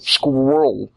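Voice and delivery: Squirrel said as "skwoll", imitating a Spanish speaker; Spanish accent. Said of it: "they can't say the word squirrel".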